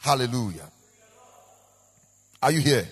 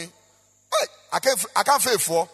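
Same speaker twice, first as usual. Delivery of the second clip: imitated driver calling out; 3 semitones higher, slower than usual. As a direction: hail someone like the driver did. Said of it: "Do you know how he called?".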